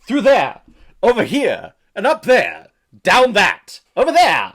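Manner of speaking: loud, high mimicry of a film actor; mocking actor imitation. Host aping a drunk-seeming actor on screen, loud mock theatrics. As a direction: belt out each short phrase in mock theatrics.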